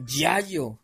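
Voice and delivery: "Yayo" with Y sounds replacing both L's; slow reveal of "Yayo"; mispronounced Lalo. Retold or imitated. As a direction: draw out the nickname "Yayo" as a punchline. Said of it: "le ponen Lalo, pero con cuatro L's".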